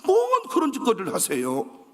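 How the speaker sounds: 뭔 hit hard in broad Jeolla speech; Jeolla dialect. Retold or imitated. Neighbour scolding the pastor in Jeolla dialect. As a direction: drop into Jeolla talk, leaning on 뭔. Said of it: "전라도에서는 그런 짓거리라 그래".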